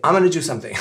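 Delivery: "I'm gonna do something" squashed to "I'mana do something"; quick, playful slurring of "I'm gonna"; extreme reduction. Shown as a demonstration. Teacher jokingly previewing an advanced form, heavily reduced. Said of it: "Et après".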